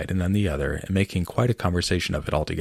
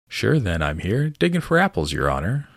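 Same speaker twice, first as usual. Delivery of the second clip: new servant voice; 3 semitones higher than usual. Acted. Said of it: "a voice she had never heard before".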